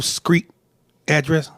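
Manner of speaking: "street" said as "screet"; mispronounced street. Retold or imitated. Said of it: "She said, Street".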